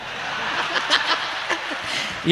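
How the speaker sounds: high, quiet mock wail; hammed-up crying without words; imitated child crying. Showing how we cried as children, mock wailing. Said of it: "એવું તો અમે રોતા હતા".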